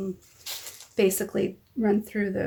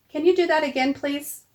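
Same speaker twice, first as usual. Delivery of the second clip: calling out; 7 semitones higher, 5 dB louder than usual. Real, not acted. Mother calling to daughter outside.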